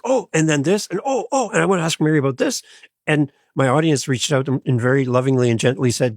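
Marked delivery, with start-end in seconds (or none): 0.1-2.6 higher, rushing mock-eager blurt; imitating his old over-eager interrupting self. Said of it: "And I'd be like".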